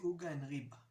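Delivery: "uga and riba" stressed on first syllables; OO-ga and REE-ba, front-stressed; slangy penultimate stress. Shown as a demonstration. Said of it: "if you're more low class".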